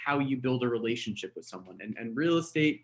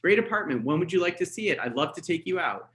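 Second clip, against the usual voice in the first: bright, brisk booking line; quick upbeat pitch; 3 semitones higher than usual. Shown as a demonstration. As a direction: sell it fast and cheerful. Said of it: "it should be very quick".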